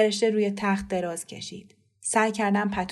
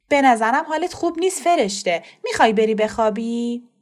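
louder, pointed cut-in to stop the scolding; loud covering mother; 3 semitones higher, 6 dB louder than usual. Acted. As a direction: speak up to change the subject.

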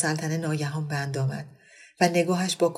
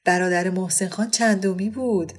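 joking; 2 semitones higher than usual. Acted. Monavar teasing her friend about Sakineh, lightly joking. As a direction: poke fun at the widow's many husbands. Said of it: "با شوخ طبعی متعارفش اضافه کرد".

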